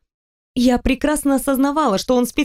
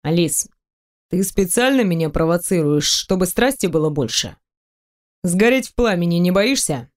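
a hint of a lower, teasing male voice; lightly voiced man; 3 semitones lower than usual. Teasing the heroine about undressing, lightly lowered male voice. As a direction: tease her, playful and sure.

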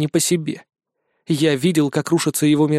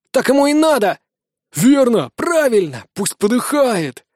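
gloating shouts; 7 semitones higher than usual. Acted. Group gloats over trapped rat.

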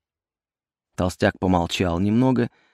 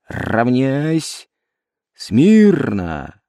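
barked command; 2 semitones higher, much slower than usual. Acted. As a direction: bark it like a drill sergeant. Sergeant's drill commands.

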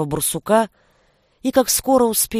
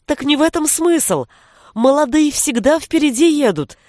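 high, lively narrated amusement with no real laugh; amused, laughing remark; 6 semitones higher than usual. A narrator's reading. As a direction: explain it in high-pitched merriment. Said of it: "засмеялась Дара".

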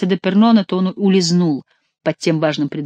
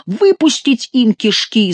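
slow, higher-pitched battle cry; bellowing; 6 semitones higher, 4 dB louder, slower than usual. A narrator's reading. Favourite calling for Angevin blood, bellowing. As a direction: draw out the bloodthirsty yell. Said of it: "заорал Можерон".

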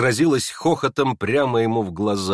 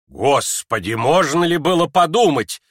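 exclamation; 4 semitones higher, 4 dB louder than usual. Acted. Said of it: "всплеснула руками Лизавета Прокофьевна".

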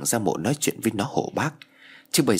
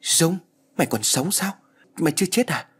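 higher, startled questions; shocked disbelief; 8 semitones higher than usual. Acted. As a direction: blurt it out in shock. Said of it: "để ngạc nhiên". (giọng cao, sửng sốt không tin nổi)

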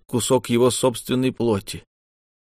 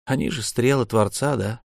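ordinary delivery, nothing marked

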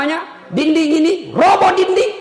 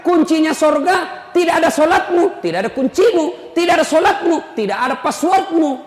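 fiery preaching; 6 semitones higher than usual. Acted. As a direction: hammer the point home to the crowd. Preacher shouting at congregation.

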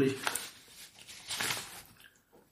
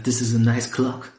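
slow, easy American English; American accent; slower than usual. Acted. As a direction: say it like a relaxed American. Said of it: "ich verfalle manchmal in meine komplett amerikanische Akzent". (amerikanischer Akzent, langsam)

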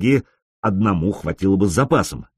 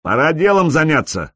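higher voice through static; breaking up space radio; 6 semitones higher than usual. Acted. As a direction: burst through radio interference. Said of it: "сквозь помехи прорвался голос". (голос сквозь помехи в эфире)

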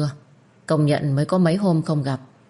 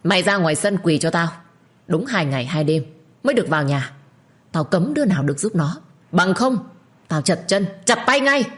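stern angry order; 3 semitones higher than usual. Acted. Father orders harsh punishment.

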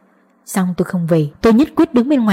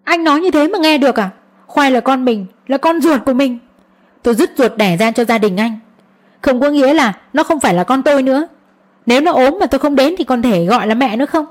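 angry outburst; 4 semitones higher than usual. Acted. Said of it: "Tôi không nhịn được liền nổi đoá lên".

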